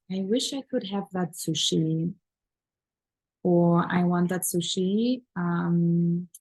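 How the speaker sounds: mock-hesitant, wistful ordering; timid mock request to a waiter; tentative wishing. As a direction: wish aloud with hesitant pauses. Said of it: "Are you talking like this to the waiter".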